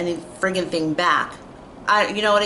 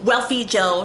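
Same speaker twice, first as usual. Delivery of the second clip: mock ghetto talk; 4 semitones higher than usual. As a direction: parody her condescending tone. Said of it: "talking to me, like, so ghetto".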